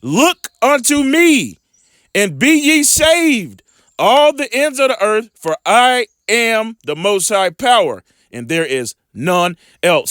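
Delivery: preacher declaiming scripture slowly; slow, lifted scripture proclamation. Acted. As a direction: proclaim the verse slowly to the congregation. Scripture read aloud in sermon.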